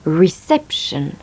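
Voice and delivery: "Reception" with the middle syllable "cep" hit hard, slowly; stressed second syllable. Shown as a demonstration. Teacher shows learners where the stress falls, slow and stressed. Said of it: "on accentue la syllabe qui précède la finale".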